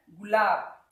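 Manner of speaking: गुलाब with a quick, short गु; short गु, open ला in गुलाब. Shown as a demonstration. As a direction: say the गु of गुलाब fast. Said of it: "ये आप जल्दी बोलोगे".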